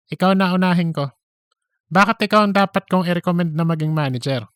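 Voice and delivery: fast, chatty office gossip voice; gossipy Cheese. Acted. Cheese pitching herself to Darren, fast and chatty. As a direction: rattle it off like a pushy coworker.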